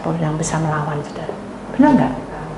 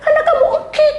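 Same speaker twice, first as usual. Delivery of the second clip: high squeaky imitation of a wheeze; wheezing while talking; 4 dB louder than usual. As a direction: squeak the words out as if short of breath. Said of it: "sesek muni". (meniru napas sesak berbunyi ngik)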